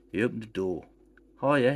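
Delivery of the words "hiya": loud friendly call. Acted. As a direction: call it down the stairs. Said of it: "he called".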